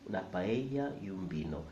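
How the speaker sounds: natural Spanish "paella" as pa-EH-ya, "vino" as bino; Spanish y sound in "paella", b in "vino"; correct Spanish pronunciation. Shown as a demonstration. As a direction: say "Una paella y un vino" smoothly with b for v. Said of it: "sounds so Spanish".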